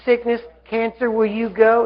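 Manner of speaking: tentative polite question; mild mock asking. Shown as a demonstration. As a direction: ask it like a request, ending on a slight rise. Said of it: "So you're not asking it".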